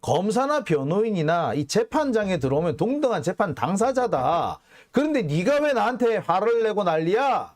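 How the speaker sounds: mildly acted heated argument, rising at the end; retold exasperation. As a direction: imitate a fed-up lawyer building to an indignant question. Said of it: "정말 열받아서 뭐라고 여기까지 얘기를". (열받은 변호인 흉내, 점점 따지듯)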